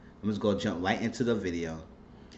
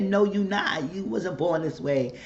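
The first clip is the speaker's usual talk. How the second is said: retold denial; 6 semitones higher than usual. Retold mother denying son's words.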